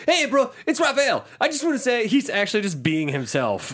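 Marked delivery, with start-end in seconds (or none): 0.1-2.1 high, lively put-on phone message; host mimics a cartoon turtle leaving a message, put-on high voice; Raphael. Co-host parodies the flirty message to April, high put-on voice. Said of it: "it's not even like".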